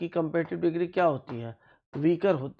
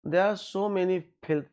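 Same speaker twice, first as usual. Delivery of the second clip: slow reading aloud; 3 semitones higher, much slower than usual. Shown as a demonstration. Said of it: "filth क्या है?".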